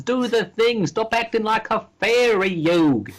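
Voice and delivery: high, hammed-up fake British accent; Joey Wheeler going British. Co-host nagging Yugi, high cartoonish British accent. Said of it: "I'm gonna go British".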